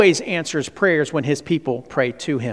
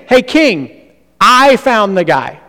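boastful courtier; 5 semitones higher, 7 dB louder, slower than usual. Acted. Preacher voices boastful Arioch.

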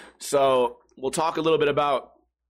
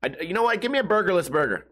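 mock customer. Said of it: "they're like".

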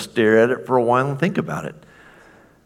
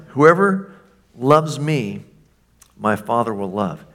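the Father blurting it out with joy; excited; 3 dB louder than usual. Acted. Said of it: "And he gets so excited".

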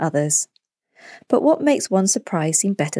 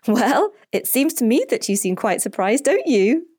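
higher, teasing lilt; amused mum with a raised final question; smiling mother; 6 semitones higher than usual. A narrator's reading. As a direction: speak through a big smile. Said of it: "with a big smile".

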